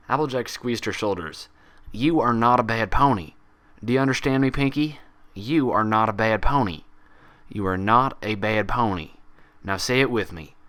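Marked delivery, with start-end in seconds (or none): 1.9-10.5 louder, firm repeating; insistent reassurance. Acted. Applejack insisting to Pinkie she is good, loud and firm. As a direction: drill it into her gently.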